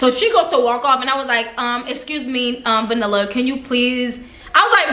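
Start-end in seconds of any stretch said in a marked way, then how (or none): 1.6-4.2 overly polite request. Retold or imitated. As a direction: ask nicely, almost sweetly, holding back annoyance. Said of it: "I was so respectful".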